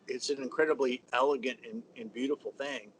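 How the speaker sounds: talking through hiccups; hiccuping. Real, not acted. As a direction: hiccups break into the words. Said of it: "Sorry, I'm hiccuping".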